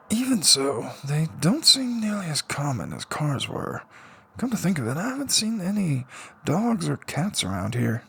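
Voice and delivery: lightly voiced young man, softly puzzled; curious musing. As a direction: wonder half to yourself. Subaru's inner musing.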